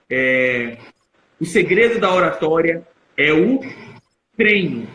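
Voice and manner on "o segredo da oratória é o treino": dramatic pause before a stressed "treino"; suspense pause, emphasis on treino. Shown as a demonstration. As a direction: hold back after "é o", then land firmly on "treino". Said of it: "quando eu entono dessa maneira". (pausa de suspense antes de "treino", com ênfase)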